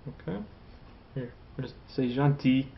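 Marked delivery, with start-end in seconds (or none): 2.1-2.7 "gentil" ending on an open "ee" sound; silent final L. Shown as a demonstration. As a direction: say "gentil" without any L at the end. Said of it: "Don't pronounce the L".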